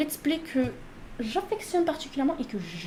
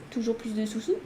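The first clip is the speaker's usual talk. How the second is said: whispered, gloating over the money; greedy whisper; 3 semitones lower, 5 dB quieter than usual. Pretend. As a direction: whisper it like a miser. Greedy aside about money. (murmure avide sur l'argent)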